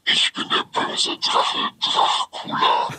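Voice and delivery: slow, breathy creepy whisper; horror film whisper. Pretend. Voice app gives the dragon line a creepy horror-film whisper. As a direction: make it sound like a horror film. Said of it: "wie in so einem Horrorfilm".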